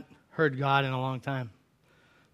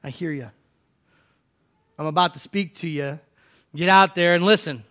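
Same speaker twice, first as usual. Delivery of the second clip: a touch of gentle God. Acted. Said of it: "And God says".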